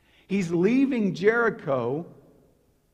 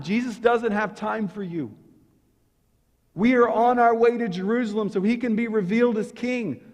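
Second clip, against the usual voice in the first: dismissive crowd; 2 semitones higher than usual. Retold or imitated. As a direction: tell him to stay out of the way. Crowd dismissing the blind man.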